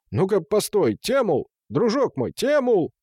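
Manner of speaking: high-pitched, coaxing call. A narrator's reading. Gustad spots Temul and calls him over, calling out. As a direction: hail someone to make him stop.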